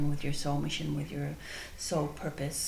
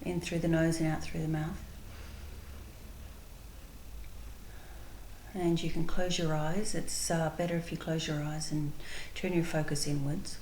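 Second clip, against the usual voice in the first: calm, unhurried guided visualization with long pauses; spontaneous meditation leading, measured and spacious. Real, not acted. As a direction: guide listeners gently inward, pausing between phrases.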